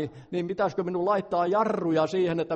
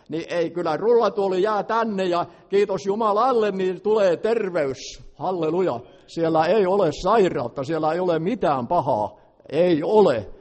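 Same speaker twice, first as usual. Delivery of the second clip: loud, rising sermon voice, pushing each line out; fervent preaching; 3 dB louder than usual. Acted. Preacher urging the congregation to be free, loud fervent preaching. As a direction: preach at full force, urging freedom.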